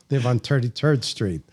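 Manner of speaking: put-on old Brooklyn "toity-toid" vowels; mock Brooklyn accent with hard t for th. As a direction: imitate a Brooklyn local. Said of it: "the people in Brooklyn".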